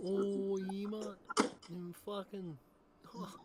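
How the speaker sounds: bragging in the put-on Sass accent. Shown as a demonstration. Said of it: "switching between my normal voice and the fucking Sass, mate".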